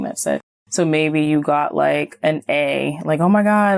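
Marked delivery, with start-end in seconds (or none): 3.2-3.8 higher, mock-thrilled outburst; acted excitement. Child reporting an A to parents, acted excitement. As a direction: play a kid delighted with a grade. Voices child pleased with a grade.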